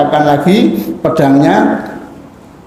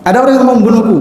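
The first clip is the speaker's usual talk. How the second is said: mild retold cry; 4 semitones higher, much faster than usual.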